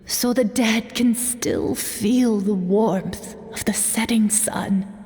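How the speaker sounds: hushed whisper of faith. Acted. Dying elder tells his friend of the Night Kingdom, whispering. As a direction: whisper it like a sacred belief. Elder explains scroll colours.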